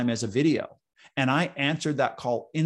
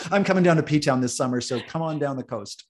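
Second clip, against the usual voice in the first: laughing; 2 semitones higher, 4 dB louder than usual. Real, not acted. Laughing invite to friend.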